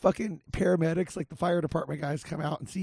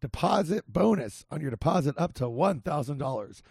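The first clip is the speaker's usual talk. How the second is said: hoarse, scratchy ad read; rough voice from being sick; raspy voice; 4 semitones lower than usual. Real, not acted. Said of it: "Sorry for my raspy voice".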